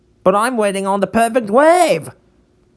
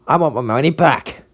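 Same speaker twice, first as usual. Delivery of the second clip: ordinary delivery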